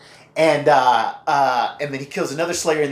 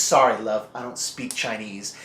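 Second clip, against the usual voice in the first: Spike voice; 4 semitones lower than usual. Retold or imitated. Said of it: "and he says".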